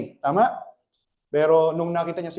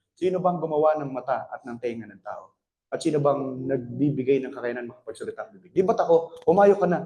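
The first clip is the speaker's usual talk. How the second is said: lower, firm divine voice; the Lord speaking; 5 semitones lower than usual. Retold or imitated. The Lord answering Moses, lower and firm. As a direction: answer with calm authority. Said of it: "sabi ng Lord".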